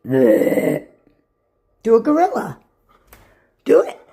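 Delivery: "Do a gorilla" stretched out slowly, gorilla held long; slow, coaxing command to the dog; drawn-out coaxing. Shown as a demonstration. Owner coaxes Tank to do a gorilla, slow drawn-out. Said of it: "Let me see you do a gorilla".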